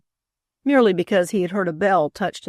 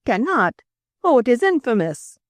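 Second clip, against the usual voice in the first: raised, outraged exclamation; explosive indignation; 5 semitones higher, 4 dB louder than usual. A narrator's reading. Frenchman told his wife cannot come home, explosively indignant. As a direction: burst out indignantly, pitch jumping. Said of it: "he exclaimed explosively".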